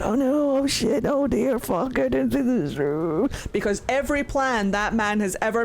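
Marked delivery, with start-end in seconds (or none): 0.0-3.3 mock panic. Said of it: "And Solas is like".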